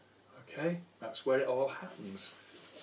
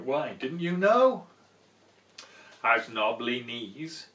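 slow, loud, menacing build on terrible; hammed-up monster tale; spooky mouse; 4 semitones lower, 8 dB louder than usual. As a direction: scare the fox with each terrible.

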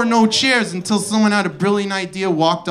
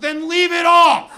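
high, louder fed-up comeback; mock exasperation, pitched up; exasperated retort; 9 semitones higher, 3 dB louder than usual. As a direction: snap back at them, exasperated. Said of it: "It's like".

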